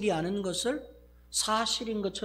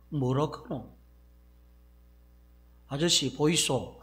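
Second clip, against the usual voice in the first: lightly voiced Gyeongsang dialect challenge; a hint of a Gyeongsang man calling out. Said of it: "경상도 버전으로". (가볍게 경상도 사투리로 부르듯)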